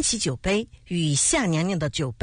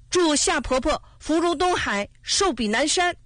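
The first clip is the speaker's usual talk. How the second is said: high, loud blessing called out; loud cheer; 9 semitones higher than usual. A narrator's reading. Ren Yuanyuan kneels and cries out birthday blessings, loud and high. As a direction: shout the blessing up high and bright. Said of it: "任远远接着也大声说".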